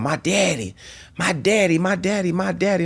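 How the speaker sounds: put-on high Chicago accent. Retelling a kid on a video talking about his daddy: imitating a chicago accent. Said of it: "you know how they talk in Chicago".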